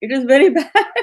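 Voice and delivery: light imitation of a Russian visitor's accent; a hint of a Russian accent, retelling a colleague's blunt verdict. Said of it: "in his Russian accent".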